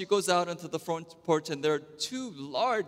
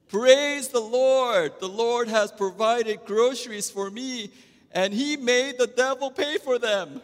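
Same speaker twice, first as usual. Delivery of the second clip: put-on triumphant old lady; 8 semitones higher, 6 dB louder than usual. Old lady answers the atheist neighbor, high and laughing.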